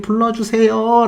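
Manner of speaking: high, drawn-out pleading call; restrained mock yell, no real volume; mock crowd shout. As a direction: imitate fans calling out, stretched and high. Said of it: "라고 외치니까".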